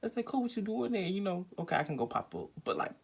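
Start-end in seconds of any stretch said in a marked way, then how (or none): 0.0-1.0 whisper. Real, not acted. Whispered aside mid-story.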